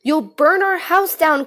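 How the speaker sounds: a mother's worried cry. A narrator's reading. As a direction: call out in alarm at her husband. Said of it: "cried his mother".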